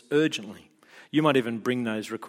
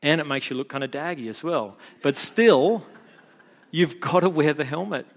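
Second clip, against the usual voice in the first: firm dad; 3 semitones higher than usual. Retold or imitated. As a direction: lay down the rule kindly but firmly. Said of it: "I'm like".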